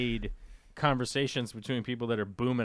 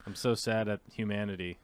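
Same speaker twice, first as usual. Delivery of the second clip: a touch of mock sadness, fading quieter; mock disappointed; 3 semitones lower, 4 dB quieter than usual. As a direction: read it as mildly let down. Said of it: "that's reading as super disappointed".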